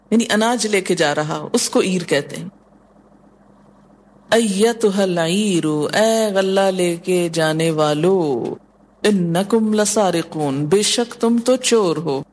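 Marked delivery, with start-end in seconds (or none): 4.3-5.9 slow, measured Quranic recitation. Shown as a demonstration. Teacher recites Quran verse. 9.0-10.6 slow, measured Quranic recitation. Shown as a demonstration. Teacher recites Quran verse.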